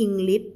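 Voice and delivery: English cut off with a hard final t, no hush; mispronounced English. Shown as a demonstration. Teacher showing students the wrong ending, English mispronounced. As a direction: end English on a stopped "t" sound. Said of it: "ไม่พูด English แล้วก็ไม่ใช่".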